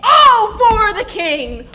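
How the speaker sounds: loud, high scornful echo; mocking shout. Jenkins mocking Billy, a loud scornful shout. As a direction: throw his words back in mockery.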